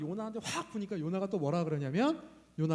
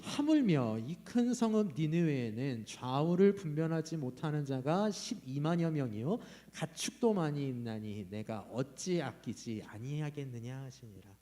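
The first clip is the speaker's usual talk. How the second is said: slow, even group reading of the verse; scripture read aloud together; 3 semitones lower, slower than usual. Shown as a demonstration. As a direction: read it out slowly together, word by word. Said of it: "십일 절 같이 읽어봅시다". (천천히 함께 읽는 성경 구절)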